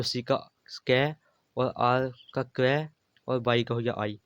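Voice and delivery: slow letter-by-letter sounds, "क्रै" then "आई"; name each letter and stretch its sound, "स्कै", "क्रै", "आई". Shown as a demonstration. Teacher showing y read as आई, sounding out "क्रै" and "आई". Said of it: "इस तरह से इसे आई भी पढ़ते हैं".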